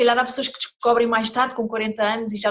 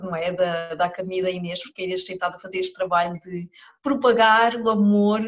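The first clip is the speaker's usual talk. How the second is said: numb from the dentist. Real, not acted. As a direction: mouth numb from anaesthetic, slightly slurred. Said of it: "estou a falar assim um bocadinho, ah, de massa". (boca dormente da anestesia do dentista)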